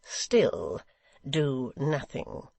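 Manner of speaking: clipped-off, slow cold warning. Acted. Secretary coldly warning Hugh, slow and cold. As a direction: let it fall coldly on still. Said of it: "said Gashford coldly".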